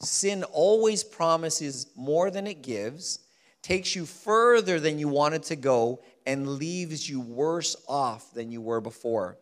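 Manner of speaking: each phrase drawn out and stressed; slow, weighty repeat. Real, not acted. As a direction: lean on "always", "further" and "worse" slowly. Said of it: "Let me say that one more time".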